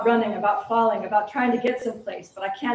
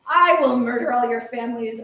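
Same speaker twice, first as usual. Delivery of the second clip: angry threat; 4 dB louder than usual. Acted. Raging at captors.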